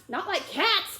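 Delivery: high, loud, outraged squeal; shrill passionate. Acted. Mouse protesting to Alice, shrill and passionate. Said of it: "in a shrill ... passionate voice".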